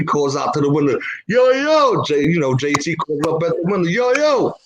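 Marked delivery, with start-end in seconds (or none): 1.3-2.0 high, drawn-out holler; calling out. Acted. Crew calls up to window, hollering. 3.9-4.5 high-pitched street holler; calling out. Acted. Friend calls up at window, hollering.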